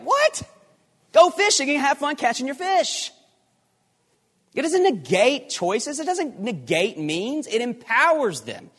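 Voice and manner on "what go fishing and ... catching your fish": mock disbelief. Mock disbelief at fishing logic.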